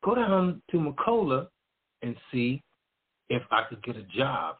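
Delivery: high excited inner voice, then settling back down; a lightbulb moment, the voice jumping up; retold sudden realization, high at first; sudden idea. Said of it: "And then I said".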